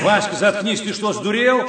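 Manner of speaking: давится смехом, тише обычного; не может удержаться от смеха; сквозь смех. Acted. Сдерживает смех на митинге. (говорит сквозь смех)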